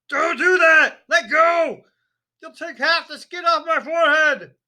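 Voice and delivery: loud, high, frantic shouting; furious yell. A narrator's reading. Father shouting at wife to stop pulling, loud frantic yell. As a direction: bellow at her to let go. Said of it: "a yell that rattled the window panes".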